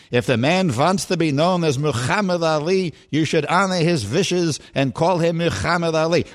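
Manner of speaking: put-on old Jewish barber voice, accented; lightly put-on old barbershop man; Eddie Murphy impression. Shown as a demonstration. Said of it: "I'm doing Eddie Murphy in Coming to America".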